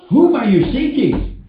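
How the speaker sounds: "Whom" pitched high, then falling; high, emphatic "Whom" opening the question; stress on WHOM. Acted. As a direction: lean hard on "Whom" as the question word. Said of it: "He didn't say what".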